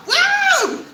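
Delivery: very high shouted "woo"; wild whoop. Acted. Streamer imagines a wild truck launch ad, wild whoop. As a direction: whoop like a crazed fan.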